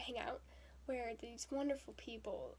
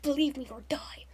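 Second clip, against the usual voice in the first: loud mock fanatic declaration; hammed-up fervent cry; mock zealous; 3 semitones higher, 9 dB louder than usual. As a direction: bellow it like a zealot. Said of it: "sort of thing".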